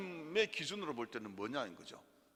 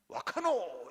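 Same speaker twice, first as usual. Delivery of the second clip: Gyeongsang dialect; 3 semitones higher, 6 dB louder, much slower than usual. Retold or imitated. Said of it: "경상도로".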